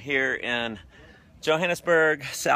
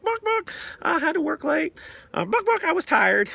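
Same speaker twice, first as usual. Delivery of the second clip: high squawky chicken voice with buck-bucks, much higher; clucking chicken excuse; 3 dB louder than usual. Retold or imitated. Team member who skipped the event, as a clucking chicken. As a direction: cluck out the excuse like a flustered hen. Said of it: "And they're like".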